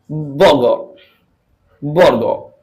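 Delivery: बर्गर as "bo-go", the r left out; American silent r. Shown as a demonstration. Teacher adding an American example, बर्गर with silent r. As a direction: end बर्गर on an open vowel. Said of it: "आर बिल्कुल silent रखते हैं".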